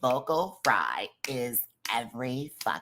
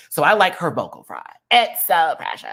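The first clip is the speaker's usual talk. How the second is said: squealing delight, pitched up; gushing high voice; 6 semitones higher, 7 dB louder than usual. Real, not acted. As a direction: gush over it like a fan. Gushing about vocal fry.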